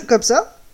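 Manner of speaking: loud panicked yelp; startled yelp imitation. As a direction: imitate a colleague's fright. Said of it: "se met à faire".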